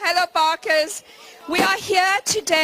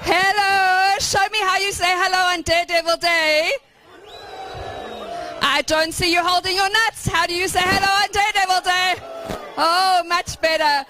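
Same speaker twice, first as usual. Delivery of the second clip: crowd call-out. Real, not acted. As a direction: pump the crowd up. Warming up a crowd.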